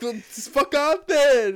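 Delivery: fake-angry brush-off; mock snap. Retelling a gaming prank to his cohost, a mock snap. Retold reaction, mock snappy.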